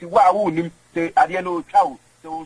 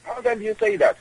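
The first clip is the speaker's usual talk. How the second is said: pitched way up in outrage; outraged disbelief. Acted. To the host over an unfair remark, high outraged disbelief. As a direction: shoot the question high, stunned. Indignant repeated question.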